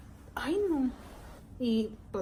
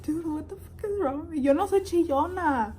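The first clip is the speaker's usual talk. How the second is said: higher, tearful self-pep; tearful rant; 7 semitones higher, 8 dB louder than usual. Retold or imitated. Talking to herself mid-cry, tearful higher rant. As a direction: wail it then punch the last line loud.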